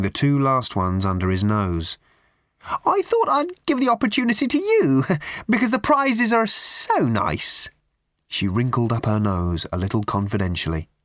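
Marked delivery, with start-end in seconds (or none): 2.8-7.7 simpering raffle woman. Acted. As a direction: drag it out with prim theatricality.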